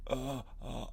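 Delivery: very faint, stuck gasps; throat-frozen croak. Retold or imitated. Comic freezes on stage mid-joke, faint choked sounds. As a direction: try to speak with a frozen throat. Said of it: "and just my throat, like, froze".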